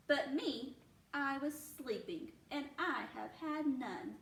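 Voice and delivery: lively, sing-song storybook reading; reading to children. A narrator's reading. Teacher reading a bear story aloud to her class, animated. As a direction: read it like a picture book to little ones.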